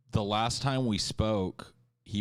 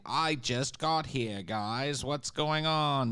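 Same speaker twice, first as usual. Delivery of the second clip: high, slow whiny arrival announcement; hammed-up viewer just arriving; mocking chatter voice; 6 semitones higher, slower than usual.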